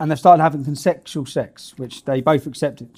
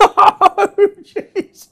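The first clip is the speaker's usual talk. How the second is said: mock mortified boy; 8 dB louder, much slower than usual. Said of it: "He's sitting there like".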